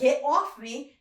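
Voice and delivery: loud, mock New York style get off; shouting at a gecko in a joke accent; made-up accent. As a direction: yell it in a put-on Long Island accent. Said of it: "I'm loving the accent".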